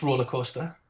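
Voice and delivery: "roller coaster" with broad Geordie o vowels; "roller coaster" as ROO-la KOH-sta; Geordie double vowels. Shown as a demonstration. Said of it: "It's a double vowels".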